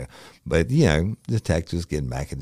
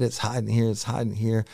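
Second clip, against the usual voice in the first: code word call; 8 semitones higher than usual. Retold or imitated. Retold code word called out.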